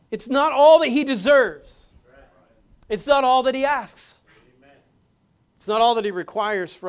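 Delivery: fervent preaching climax; preaching loud. Real, not acted. Preacher builds to exhortation.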